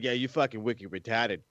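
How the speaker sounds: lightly imitated Boston accent; mock Boston accent. Host mimicking a wrestler, mild Boston accent. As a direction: tease with a bit of Boston. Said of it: "make fun of Alicia and her Boston accent".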